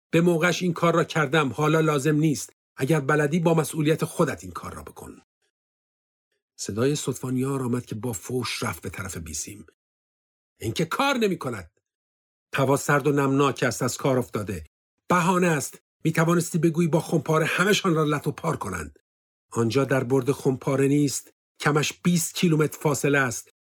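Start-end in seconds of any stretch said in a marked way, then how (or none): 0.1-5.2 higher, defiant; mock-indifferent soldier; dismissive refusal. Stefan refuses the order. 10.6-23.5 raised, accusing back-and-forth; mild acted anger, higher; heated argument. Argument over radio and mortars.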